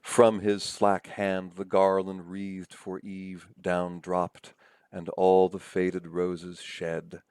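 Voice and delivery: slow, measured reading of verse; reciting verse. Shown as a demonstration. Lecturer reads Milton's lines to show euphony, reciting. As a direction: read the lines out slowly and evenly. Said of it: "here's a pair of lines".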